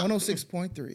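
lightly voiced station call sign; radio DJ bit. Joking after songs in the car, mock radio DJ. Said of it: "how the radios be doing".

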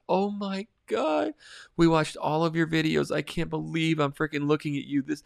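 high-pitched starstruck fan impression; imitated freaking out. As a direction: gush in a put-on high voice, stretching the first exclamation. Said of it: "she was just freaking out".

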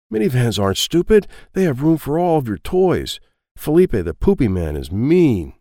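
put-on loud, high little kid insisting; boy sticking up for his van, loud and high; child voice. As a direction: whine it like a small boy. Child defends the minivan.

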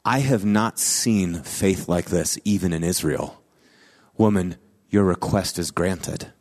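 Jesus speaking kindly to the woman, solemn and gentle; gentle solemn pronouncement. Retold or imitated. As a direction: grant it tenderly. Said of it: "And Jesus says".

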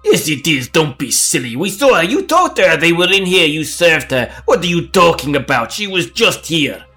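insist, exasperated; insistent drunk. Acted.

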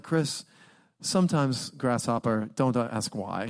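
a patient kung fu teacher calling him grasshopper; calm wise mentor. Retold or imitated. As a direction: hand down wisdom like an old master to a pupil. Mentor Bill answers his questions.

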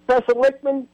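lightly put-on heavy Southern accent, as a political operative on the phone. Reagan's political director phoning the professor, in a mock heavy Southern accent. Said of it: "his very heavy Southern accent".

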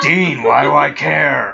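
drawn-out, badly faked Scottish accent; bad stab at a Scottish wrestler; botched Scottish accent. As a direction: attempt a Scottish voice, slowly and hammily. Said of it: "I can't do voices".

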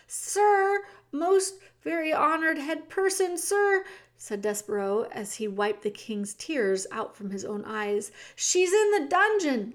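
urgent mouse. Acted. The mouse tells the king where his daughter is, high and urgent. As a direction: blurt the news up to him.

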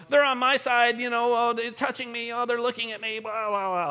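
put-on squabbling kids. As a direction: imitate bickering children tattling on each other. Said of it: "brothers and sisters, they fight".

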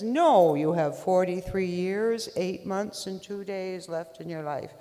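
giant booming voice from above. Acted. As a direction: boom it out like God. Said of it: "A booming voice says".

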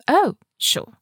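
put-on high London-accented agreement; airy "oh, sure" from a Londoner; Rose. A narrator's reading. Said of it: "her too chic for this place London accent".

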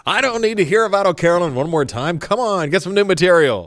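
exasperated audience jeer, hammed up; mock heckling. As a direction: gripe loudly at the act like a heckler. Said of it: "Somebody just yells".

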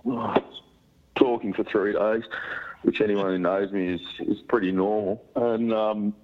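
sick, croaky voice; hoarse voice. Real, not acted. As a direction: voice worn out from flu. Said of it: "a funny sounding voice at the moment".

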